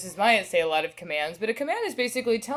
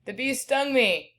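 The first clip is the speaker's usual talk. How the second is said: exclaiming; 4 semitones higher than usual. Shown as a demonstration. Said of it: "Really only use one exclamation point".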